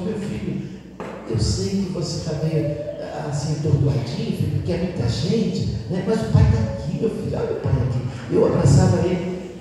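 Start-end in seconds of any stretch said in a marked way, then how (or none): 0.0-8.0 softly reassuring; calm an overwhelmed son tenderly; soothing father. Retold or imitated. Father comforting his son at a crowded party, soothing. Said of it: "Aí eu acarinhei ele ontem".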